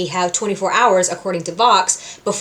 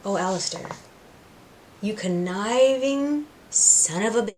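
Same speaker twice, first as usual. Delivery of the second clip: mock grumble; 6 dB quieter than usual. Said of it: "we as the audience are like".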